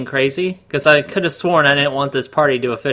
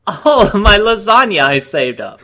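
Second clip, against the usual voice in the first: higher, louder, laughing through a fake wail; mock lament; 6 semitones higher, 5 dB louder than usual. Co-host mock-mourns his lasagna, laughing and higher. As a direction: pretend to mourn the lasagna while cracking up.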